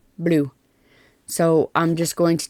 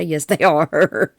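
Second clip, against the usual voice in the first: laughing; slower than usual. Real, not acted. Laughing at own question.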